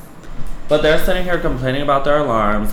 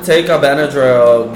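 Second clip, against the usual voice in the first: laughing; 3 semitones higher, 4 dB louder than usual. Real, not acted. Mock advice amid shared laughter.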